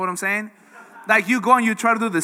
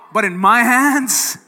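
building, louder reassurance from God; 4 dB louder than usual. Retold or imitated. God answering the doubting believer, building louder. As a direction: repeat it slower and stronger each time. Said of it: "And God would say".

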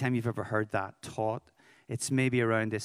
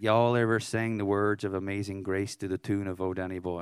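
lower-pitched mock American accent; bad American accent; 4 semitones lower than usual. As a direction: imitate an American asking, in a poor accent. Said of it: "that's my bad American accent".

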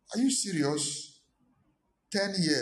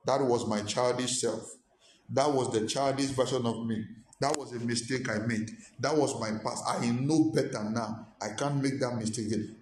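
calm self-affirmation. Shown as a demonstration. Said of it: "Say to yourself".

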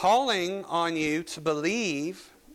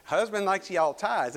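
Southern drawl; 4 semitones higher than usual. Retold or imitated. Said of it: "somebody from Georgia".

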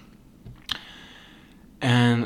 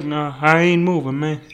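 imitated Black American accent; 3 semitones higher, 4 dB louder than usual. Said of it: "give him a black accent".

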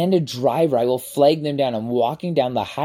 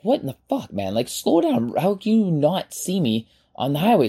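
pitched-up exasperated yelling at the driver; retold angry yell; 5 semitones higher than usual. Yelling at the speeding driver who nearly missed him, retold angry yell.

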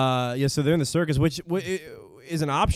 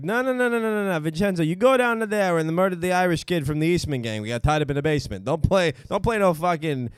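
angry Italian father; 5 semitones higher than usual. Acted. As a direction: scold him like a mob father. Mobster father scolding son.

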